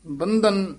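ਬੰਧਨ with a heavy, weighted dh; ਬੰਧਨ, its middle consonant made heavy; heavy sound. Shown as a demonstration. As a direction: lean on the ਧ in ਬੰਧਨ. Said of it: "ਭਾਰਾ ਬੋਲਣਾ".

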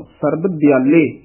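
ਦਿਆਲੇ drawn out as di-aa-lay; correct pronunciation. Shown as a demonstration. Teacher models ਦਿਆਲੇ for reciters, slow careful pronunciation. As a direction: say ਦਿਆਲੇ slowly, with no extra vowel after the first consonant. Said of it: "ਇਸ ਨੂੰ ਦਿਆਲੇ ਕਹਿਣਾ ਹੈ".

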